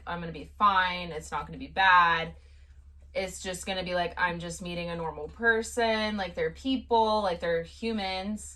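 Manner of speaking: retold calming inner voice; self-reassurance. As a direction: talk yourself down calmly. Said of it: "I had talked myself up".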